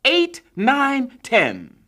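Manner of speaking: breathless radio count; counting the knockout. A narrator's reading. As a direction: count it out with rising excitement. Announcer finishes the count.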